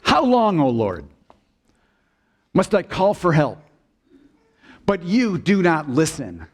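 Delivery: lightly dramatized plea to God; Habakkuk's lament. Acted. Preacher reads the prophet's complaint to God, mildly pleading lament. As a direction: cry out a little, then fall away on each phrase. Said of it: "So Habakkuk begins like this".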